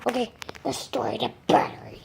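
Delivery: hushed plotting whisper. Acted. Kid whispers the secret plan to his toy birds.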